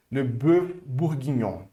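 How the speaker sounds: le bœuf bourguignon slowly in French; slow French demo of le bœuf bourguignon; French model. Shown as a demonstration. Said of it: "Repete comigo".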